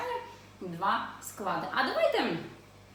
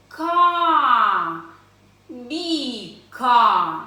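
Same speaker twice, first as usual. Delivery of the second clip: syllable by syllable; 10 dB louder, much slower than usual. Shown as a demonstration. Teacher reading along with children, loud drawn-out syllables. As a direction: sound out each syllable at length. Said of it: "читаємо зі мною по складах".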